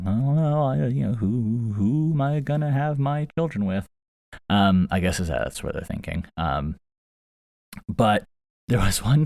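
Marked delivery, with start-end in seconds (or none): 0.0-3.9 shy lady iguana. Retold or imitated.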